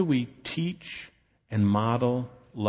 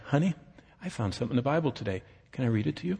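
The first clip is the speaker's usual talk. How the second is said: gentle invitation; 8 dB quieter, much faster than usual. Retold or imitated. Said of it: "go like this. Say".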